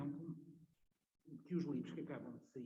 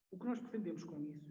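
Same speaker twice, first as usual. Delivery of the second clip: through a face mask; 2 semitones higher than usual. Real, not acted. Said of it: "custa falar com máscara".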